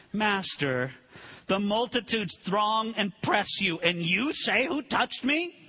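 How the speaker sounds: sarcastic Peter. Acted. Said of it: "the sarcasm in Peter's voice".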